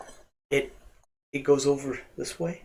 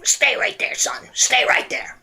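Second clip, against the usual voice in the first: high, urgent stage voice; high, airy call to stay put; magician halting a customer; 10 semitones higher than usual. Acted. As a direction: stop the boy in his tracks.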